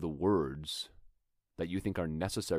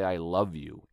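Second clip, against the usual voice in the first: I love you said with a sense of I'm so sick of you; love words in a tired, fed-up tone; fed-up love line; 4 dB louder, slower than usual. Shown as a demonstration. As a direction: let the annoyance leak through. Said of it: "in a way that communicates I'm so sick of you".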